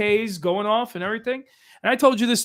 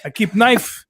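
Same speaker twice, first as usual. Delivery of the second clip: broken-English Croatian stepfather; Croatian accent. Retold or imitated. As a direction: tell it like a Croatian dad. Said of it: "you gotta tell it in his voice".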